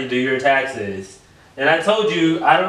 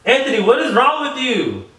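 exasperated; 9 semitones higher than usual. Real, not acted. Exasperated at being ignored.

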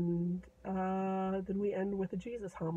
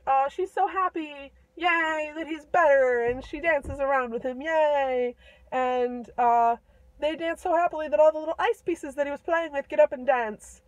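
louder, higher happy narration; joyful telling; 5 semitones higher, 7 dB louder than usual. A narrator's reading. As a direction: cheer it like a kid's party. Joyful reunion, yay.

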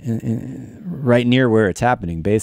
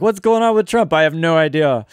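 high-pitched attempt at a European accent that misses; a bad mock European viewer voice; failed European accent; 5 semitones higher than usual. Streamer voicing European viewers about Trump, botched European accent. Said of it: "that was not obviously in a European accent".

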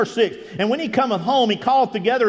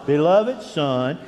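voice of God; much slower than usual. Retold or imitated. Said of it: "and He says".

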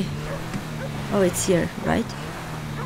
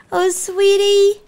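cooing; 6 semitones higher than usual. Real, not acted. Cooing at the dog.

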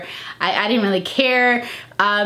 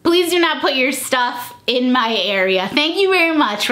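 sassy; 4 semitones higher than usual. Retold or imitated. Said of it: "to say".

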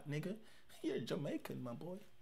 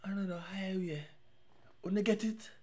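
whispered singalong; 4 semitones higher, 5 dB quieter, slower than usual. Real, not acted. Whispering along to the song.

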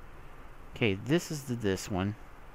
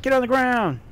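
loud commanding yell; sudden loud shout at an enemy; 13 semitones higher, 6 dB louder than usual. Real, not acted. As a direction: bark the order at the zombie. Yelling at zombie in game.

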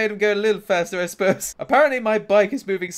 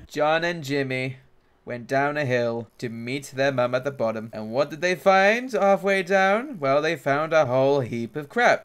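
mock storytelling; 2 semitones lower than usual. Mock storytelling over the game.

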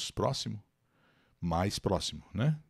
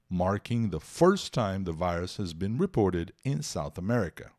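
steady, measured news reading in English; 2 semitones lower than usual. Shown as a demonstration. Teacher reading a news article aloud to students, newscaster style. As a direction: read it like a newscaster, slow and even.

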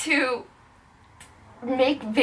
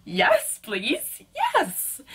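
high-pitched eager yes; eager pleading; 3 semitones higher, much slower than usual. Retold or imitated. Vlogger retelling her reply to an offer, eager pleading. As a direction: plead for it in little bursts.

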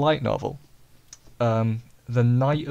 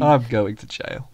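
drawn-out meme quote; slower than usual. Acted. Mock meme line, drawn out.

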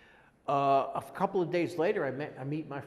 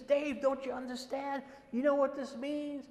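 high-pitched, eager questioning; retold thrilled urgency; excited; 11 semitones higher than usual. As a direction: imitate a friend amazed you don't get it. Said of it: "He was so excited".

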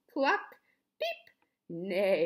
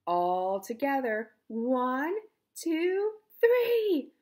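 loud count climbing higher to a shout; rallying count; 6 semitones higher, 6 dB louder, slower than usual. A narrator's reading. Toad rallies animals to push, rising shouted count. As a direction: build up to a big high THREE.

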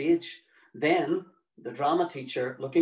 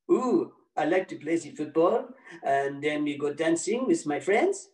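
English with a light hammed-up French accent; mock French accent; 3 semitones higher than usual. Tommy answering the oral exam in a mock French accent. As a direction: play a schoolboy faking French in English, French accent. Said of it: "but with a French accent".

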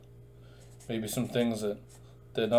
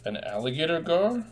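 gasping, higher echo of the name; mock surprise; 6 semitones higher than usual. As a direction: act amazed for the kids. Gasps, echoes the name back.

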